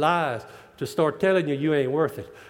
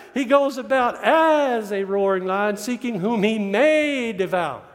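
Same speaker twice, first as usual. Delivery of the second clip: laughing repeat; 3 semitones higher, slower than usual. Acted. Repeats scripture verse, laughing.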